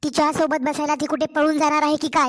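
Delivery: harsh scolding. Acted. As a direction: brush off her plea with contempt.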